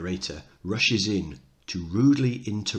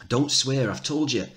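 perfunctory; 5 semitones higher than usual. Acted. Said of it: "Missus Johnson perfunctorily".

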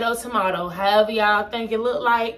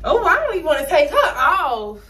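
laughing; 5 semitones higher, 3 dB louder, faster than usual. Real, not acted. Laughing while talking.

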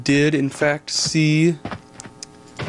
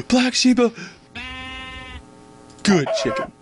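dark lord voice; 12 semitones higher than usual. Acted. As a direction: gloat like a pantomime villain. Villain praising chicken.

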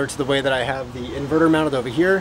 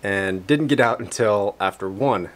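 slurred numb-mouth speech; talking with a numb mouth; numb from the dentist. Real, not acted. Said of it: "I'm talking kinda funny because I went to the dentist".

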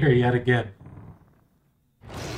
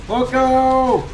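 high excited shout; 9 semitones higher, 4 dB louder than usual. Real, not acted. Exclaimed high.

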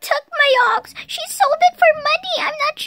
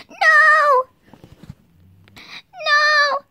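upset cry; 3 dB louder than usual. Pretend. Child protests losing pet.

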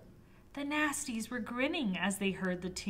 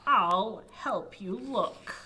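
slow witch voice; 5 dB louder, slower than usual. Acted. Witch offers help.

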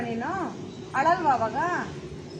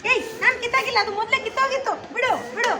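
higher, indignant denial then plea to let go; defensive protest; 5 semitones higher than usual. Shown as a demonstration. Director shows the boy denying he tore the doll, protesting. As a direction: deny it hotly, push her off. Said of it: "ಆ ಥರ".

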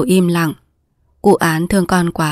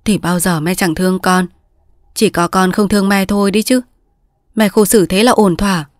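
softened. Acted. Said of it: "lòng người mẹ hiền lại dịu đi".

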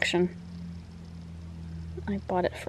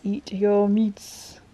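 coaxing; much slower than usual. Real, not acted. Coaxing the cat to eat.

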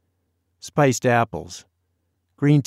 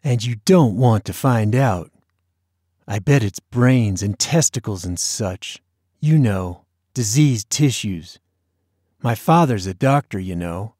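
lightly hushed, conspiratorial; a touch of mock mystery; dramatic, secretive tone. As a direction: lean in and tease like sharing a secret. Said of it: "adopting a dramatic, secretive tone".

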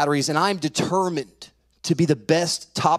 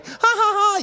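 high put-on "ha, ha, ha"; mock kid laugh; 3 dB louder than usual. Teller mimics the wild neighbor kid, mock laugh. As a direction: imitate a mischievous kid's cackle.

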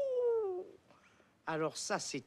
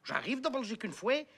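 mock Belgian accent. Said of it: "Je prends l'accent belge?".

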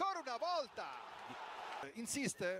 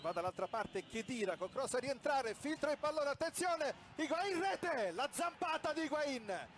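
breathless italian goal commentary. Real, not acted.

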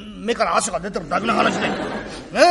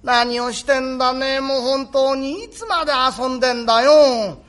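nagging mother. Acted. Mother fussing at her son for playing late, lightly voiced. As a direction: nag the boy home to help.

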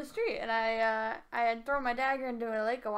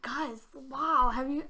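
alarmed; 2 semitones higher, 5 dB louder than usual. Acted. Player acting worried to customers.

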